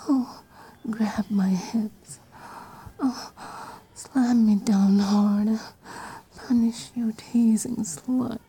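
breathy pretend sex moans; mock moaning. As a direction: moan it like she's riding. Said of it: "Maybe I'd be".

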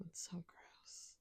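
slow, hushed mock disgust; breathy disgust. Teasing a partner, hushed mock disgust. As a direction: whisper it slowly, as if grossed out.

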